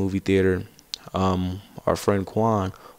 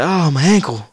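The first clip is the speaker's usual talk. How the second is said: mock whining; 8 semitones higher, 6 dB louder than usual. Limping friend complains again.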